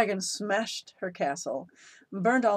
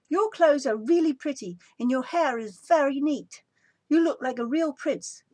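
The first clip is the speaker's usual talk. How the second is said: higher, sugary sarcastic compliments; mock praise; 7 semitones higher than usual. A narrator's reading. Princess sarcastically praising the prince. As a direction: lay the praise on thick, ironic. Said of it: "said Elizabeth".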